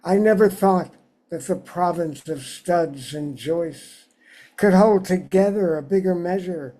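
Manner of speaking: measured poem recital, phrase by phrase with pauses; unhurried literary reading, settling at line ends; poetry reading. Acted. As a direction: read your poem aloud to an audience, lifting each new sentence. Reads own poem aloud.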